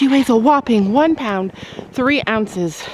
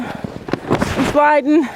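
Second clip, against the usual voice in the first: "sliding" stretched very slow, sing-song; drawn-out sliding; 3 semitones higher, much slower than usual. Real, not acted. Slipping on ice, drawing out "sliding" very slowly. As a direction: slowly stretch out "I'm sliding" as you slip.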